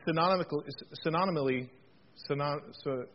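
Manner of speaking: botched attempts at "synonymously", halting; stumbling on word. Real, not acted. Preacher trying a big word and failing, stumbling on "synonymically". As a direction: trip over "synonymically, synonymally", then break off at "synon-". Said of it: "but I can't".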